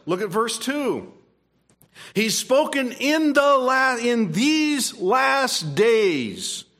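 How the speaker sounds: fervent pulpit delivery; preaching. Acted. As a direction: proclaim it to the congregation. Preaching to the congregation.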